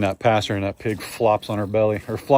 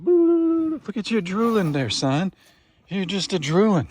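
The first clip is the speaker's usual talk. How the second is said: pet talk; 6 semitones higher, slower than usual. Real, not acted. Talking sweetly to a farm animal.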